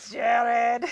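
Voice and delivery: mock Arnold yell. Co-host asks for an Arnold yelling at Jared, mock yell. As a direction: call his name like a half-hearted Terminator. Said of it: "can you do an Arnold that yells at Jared".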